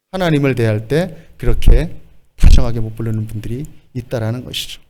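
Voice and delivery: ordinary talk, nothing marked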